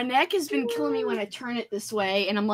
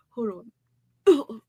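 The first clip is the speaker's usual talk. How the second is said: tedious drawn-out. Real, not acted. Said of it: "I make a noise like it's so tedious".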